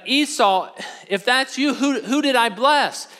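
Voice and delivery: high-pitched, anguished questioning; mock-tearful plea, without real sobs; distraught father. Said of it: "started crying".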